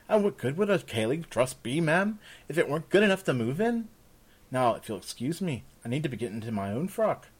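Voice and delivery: lightly voiced perky servant girl; young maid, cheerfully helpful. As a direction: answer like a keen young maid.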